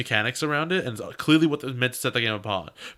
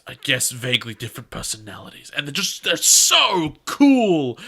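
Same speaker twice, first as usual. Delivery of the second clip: mock awe. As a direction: gush like a dazzled kid, tongue in cheek. Mimicking awed kids.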